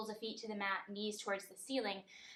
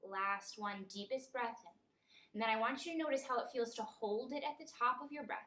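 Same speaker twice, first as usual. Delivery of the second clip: measured meditation guide, long pauses between phrases; guided meditation. Acted. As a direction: lead them gently through each breath, leaving room. Leads a breathing meditation.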